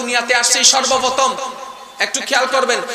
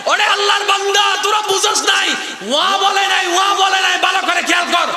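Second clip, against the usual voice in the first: preaching as Ghazali; 6 semitones higher than usual. Acted. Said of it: "ইমাম গাজ্জালি আলাইহির রাহমা বলে".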